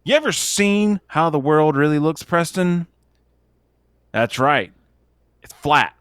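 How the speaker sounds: flat-earther rant. Pretend. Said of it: "I'm just kidding".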